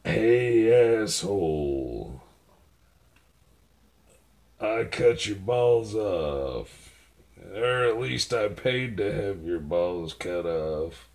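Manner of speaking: slow, drawn-out mock menace; mock threat. New threat to the dog, slowly drawn out. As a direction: stretch out the threat, savoring it. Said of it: "How about this?".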